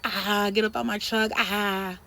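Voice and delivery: mildly mocking childish jeer; lightly acted immature crowing; immature taunting. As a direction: imitate a gloating taunt, stretching the "ah". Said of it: "he was acting really immature".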